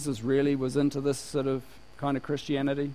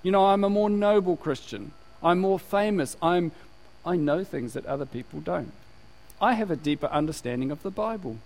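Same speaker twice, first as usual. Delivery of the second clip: mock superior Christian; 2 semitones higher than usual. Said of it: "because you're saying".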